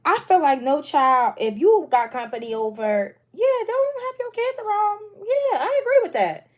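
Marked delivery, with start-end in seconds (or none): 3.3-6.5 emphatic agreement. Real, not acted.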